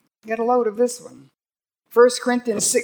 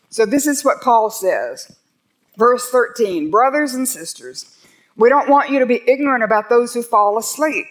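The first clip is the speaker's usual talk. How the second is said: fervent preaching; 4 dB louder than usual. Acted. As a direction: preach it with conviction. Pastor preaching with rising fervor.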